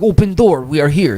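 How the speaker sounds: high mock Russian accent, broken English. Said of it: "like, Russian accents and shit".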